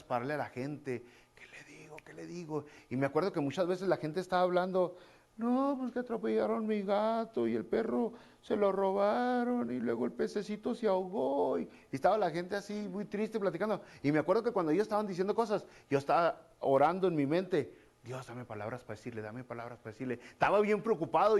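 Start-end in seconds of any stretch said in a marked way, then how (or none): 1.3-2.6 much softer, murmured to himself; a hushed, fretting inner voice; anxious inner thought. Retold or imitated. His own anxious inner thought. 5.4-11.6 higher, lightly mocking whiny voice; a hint of a sad gossiping voice; mock complaining people. 18.0-20.2 much softer, pleading under the breath; a hushed inner plea to God; silent prayer. Retold or imitated. Silent prayer in his mind.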